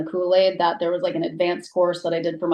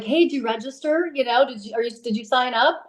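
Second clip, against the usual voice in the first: excited; 5 semitones higher than usual. Retold or imitated. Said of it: "I'm, like, all excited".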